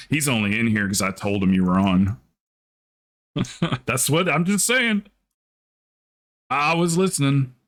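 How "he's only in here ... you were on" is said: lightly low, blunt deadpan line; flat deadpan. Retold or imitated. Streamer contrasts Stabby's actual words with a flat deadpan. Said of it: "what you actually said was".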